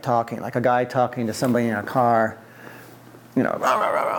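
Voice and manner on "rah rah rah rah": rah-rah babble imitating lively talk; quick nonsense stand-in for animated talk; mock animated chatter. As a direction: imitate someone yakking away wordlessly. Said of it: "all animated and everything".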